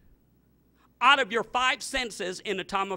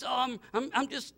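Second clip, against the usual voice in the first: mock tearful wife; 5 dB quieter than usual. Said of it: "And she's crying".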